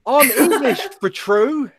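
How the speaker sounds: put-on high-pitched, laughing English accent; mock English accent. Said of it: "made fun of an English person for their accent".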